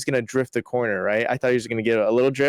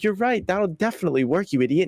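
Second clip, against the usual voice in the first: sarcastic; 6 semitones higher than usual. Retold or imitated. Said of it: "No, they're not gonna believe that".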